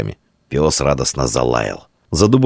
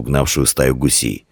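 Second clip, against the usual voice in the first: plain reading voice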